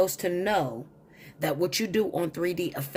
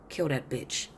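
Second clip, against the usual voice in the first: low-key, slightly lowered imitation of his order; offhand retold order; 3 semitones lower, 4 dB quieter than usual. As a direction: give his order casually, without raising your voice. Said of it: "he says it just like that".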